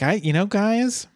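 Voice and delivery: high, swooping mock-distressed dean; hammed-up dithering administrator; the dean, flustered. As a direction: swoop up high in comic dismay. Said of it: "and he is like".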